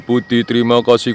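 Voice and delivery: normal talking voice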